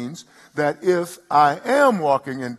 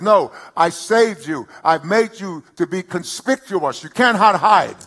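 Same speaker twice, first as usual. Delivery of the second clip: voice of God; 3 semitones higher, 5 dB louder than usual. Retold or imitated. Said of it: "He says".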